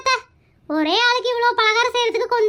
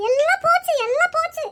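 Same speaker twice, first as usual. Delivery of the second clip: higher-pitched mock-tragic wail; theatrical lament; 4 semitones higher than usual. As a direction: lament to your son as if all is lost. Mother laments her son is lost.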